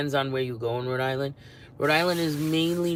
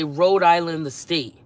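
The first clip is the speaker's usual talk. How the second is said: louder "Rhode Island" stressed firmly; insisting; 3 semitones higher, 8 dB louder, slower than usual. Retold or imitated. Correcting strangers who think she means Long Island, loud insistent stress. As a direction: spell it out, punching "Rhode Island". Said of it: "So I have to say".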